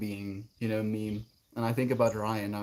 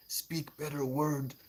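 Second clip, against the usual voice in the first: dumb caveman voice; 3 semitones higher, 7 dB quieter, slower than usual. Acted.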